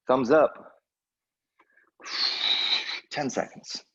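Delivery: upbeat fitness coach cueing the class; bright, encouraging class instructor; aerobics instructor. Real, not acted.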